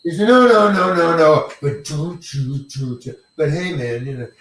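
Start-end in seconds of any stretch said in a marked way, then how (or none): 0.2-3.2 mock passive-aggressive protest, starting loud then fading to a mutter; imitating a director who says no but then pulls back. Imitating director Larry brushing off the actor, mock passive-aggressive. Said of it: "Passive aggressive".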